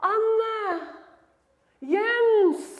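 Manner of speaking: held-out names, measured call. Acted. Holy Spirit calling people back by name, calling out. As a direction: call two names, waiting after each. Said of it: "Men han begynner å rope".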